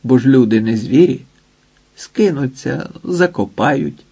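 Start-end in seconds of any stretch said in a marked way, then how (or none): none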